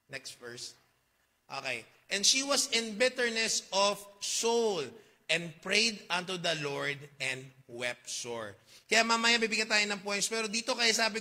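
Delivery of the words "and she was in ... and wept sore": slow scripture reading. Acted. Reads scripture slowly.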